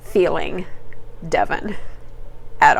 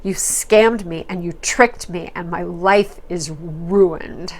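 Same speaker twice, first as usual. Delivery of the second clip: slow accusing; slower than usual. Retold or imitated. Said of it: "she says".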